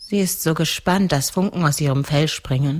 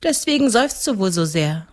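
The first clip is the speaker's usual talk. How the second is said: put-on higher little-girl voice; seven-year-old girl; 6 semitones higher than usual. (kindliche Mädchenstimme)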